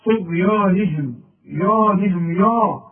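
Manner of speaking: طغيانهم with a thin light ya; the mistaken thin يا; wrong thin ya. Shown as a demonstration. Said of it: "ما تقولش بقى". (طغيانهم بياء مرققة غلط)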